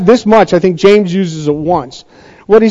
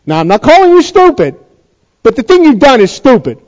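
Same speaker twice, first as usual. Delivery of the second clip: coach's scolding. Acted. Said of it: "we said it to ball players before".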